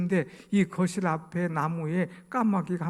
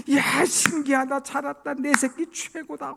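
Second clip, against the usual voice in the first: mock parent delight; 10 semitones higher, 4 dB louder than usual. Parent praising child's babble.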